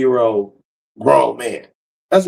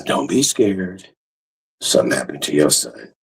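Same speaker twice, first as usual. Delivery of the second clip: sister's warning; 10 semitones lower, 5 dB quieter than usual. Retold or imitated. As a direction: drag it out gravely low. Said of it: "she was like".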